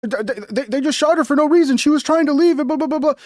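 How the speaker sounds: mocking.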